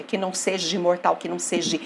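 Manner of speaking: "seja imortal" linked softly, the end of "seja" gliding into the i; vowels run together. Shown as a demonstration. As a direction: say "que não seja imortal" with the two words joined, quietly. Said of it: "Então pronuncia". (pronúncia com elisão em "seja imortal")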